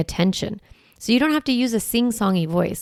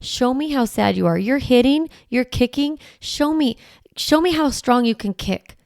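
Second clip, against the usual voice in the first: encouraging coach; 5 semitones higher than usual. Shown as a demonstration. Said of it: "You might have to be like".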